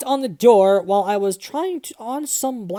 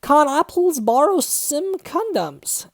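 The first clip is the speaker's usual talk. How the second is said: mock growl; 6 semitones higher, 3 dB louder, slower than usual. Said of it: "he growled angrily".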